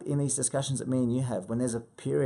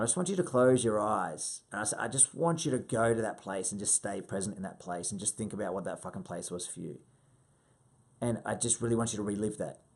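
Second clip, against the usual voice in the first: soft, lower coaching voice; guiding visualization; 4 semitones lower, 4 dB quieter than usual. Acted. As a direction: ease them gently into the memory. Coach guiding client through visualization.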